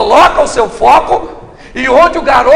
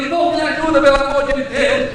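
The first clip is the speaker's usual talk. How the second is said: mock weepy plea, a touch raised; imitated tearful pleading; 4 dB quieter than usual. Church sister begging the preacher for help, mock tearful. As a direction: plead like someone in tears, lightly hammed. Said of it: "Aí eu venho chorando".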